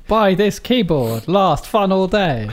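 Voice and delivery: mock Chinese accent, slow. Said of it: "That was my Chinese accent".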